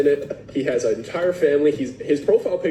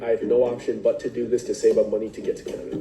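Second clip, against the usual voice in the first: laughing while quoting; 4 semitones lower, faster than usual. Retold or imitated. Quoting scammer's sob story, laughing.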